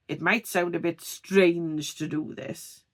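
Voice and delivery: STRANGE stretched out and exaggerated; over-emphasized STRANGE. Shown as a demonstration. Coach demonstrating emphasis on video, STRANGE overemphasized. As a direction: overdo the word STRANGE, enunciating it fully. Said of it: "The strange there is overemphasized".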